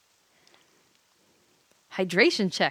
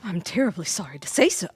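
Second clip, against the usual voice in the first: higher, loud, theatrical courtly gushing; excitable gentleman; 4 semitones higher, 6 dB louder than usual. Acted. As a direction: ham up an over-eager gentleman. Voices excited Ash.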